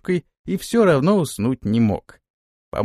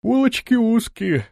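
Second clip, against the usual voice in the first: yawning; 9 semitones higher than usual. A narrator's reading. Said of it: "заметил, зевая, Антон".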